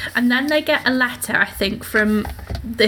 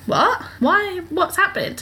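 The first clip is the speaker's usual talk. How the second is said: higher, startled run of questions; shocked neighbours; 8 semitones higher, slower than usual. Retold or imitated. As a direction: play the whole town caught off guard. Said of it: "everyone's like".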